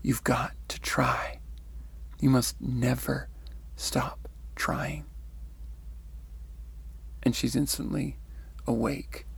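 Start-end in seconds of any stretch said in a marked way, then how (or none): 0.0-5.0 slow, measured, calm urging. Retold or imitated. Messenger urging her to keep trying, very calmly. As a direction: say it calmly, with pauses between phrases. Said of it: "He says very calmly".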